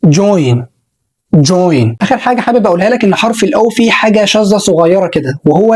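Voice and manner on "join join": "join" with an oy glide, lower; model pronunciation. Shown as a demonstration. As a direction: say "join" clearly. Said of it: "أو الكلمة دي". (نطق join)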